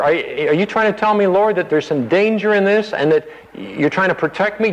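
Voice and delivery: high, urgent eager disciple; eager Peter. Acted. Peter urging Jesus to take him along, high and eager. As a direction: plead to go along, rushing.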